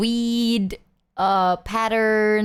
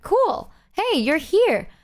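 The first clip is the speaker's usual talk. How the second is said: excited greeting; 7 semitones higher, slower than usual. Retold or imitated. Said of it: "I was like".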